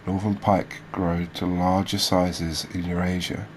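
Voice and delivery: measured read-out of fish facts; reading aloud. Real, not acted. Host reading species facts to viewers, informative read-aloud. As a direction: read it out like a documentary script.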